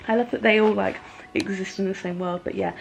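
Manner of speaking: speaking with a retainer in; slight lisp from a retainer; wearing a retainer. Real, not acted. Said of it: "so sorry if I sound funny".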